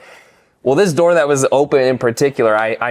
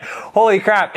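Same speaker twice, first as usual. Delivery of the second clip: much higher mock astonishment; imitating stunned disbelief; 9 semitones higher, slower than usual. Trainer staring into the living room, stunned mock exclamation. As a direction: gasp it out in disbelief. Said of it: "He's like".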